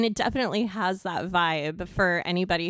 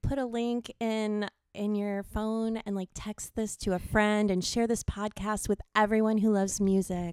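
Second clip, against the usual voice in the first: put-on pleading girl voice; 3 semitones higher than usual. Shown as a demonstration. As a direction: beg sweetly for help. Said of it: "men really dig chicks saying".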